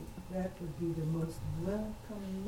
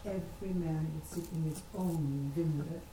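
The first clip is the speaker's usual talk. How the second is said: "own" held a little for emphasis; stress on own. Shown as a demonstration. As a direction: put the weight on "own". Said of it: "I emphasize the word own".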